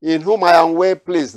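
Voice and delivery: voice from heaven. Acted. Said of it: "The voice from heaven saying".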